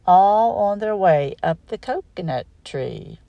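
put-on lively singsong read-aloud for kids; reading to children. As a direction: bounce through the rhyme for little listeners. Reads picture book aloud.

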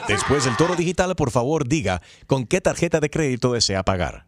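lightly done automated recording; phone menu voice. Acted. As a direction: read it like a robocall message. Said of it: "¿Es una computadora".

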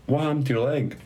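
mildly imitated American woman; American accent. Older lady asks about his injured leg, imitated American accent. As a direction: ask it with a light American accent. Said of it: "in an American accent".

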